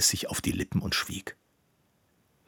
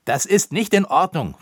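a high, loud angry cry; 8 semitones higher, 6 dB louder than usual. Acted. Koníček objects to Roppucher, loud high cry. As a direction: shout it out in outrage, higher and louder. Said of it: "rief er".

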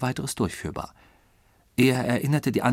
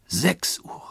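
entsetzt; 8 semitones higher than usual. A narrator's reading. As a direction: cry it out aghast, voice jumping up. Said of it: "Entsetzt rief es Passepartout". (entsetzter, hoher Ausruf)

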